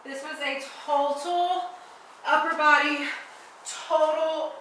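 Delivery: slow, breathless after the set; exhausted, catching your breath. Real, not acted. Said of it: "My abs are on fire".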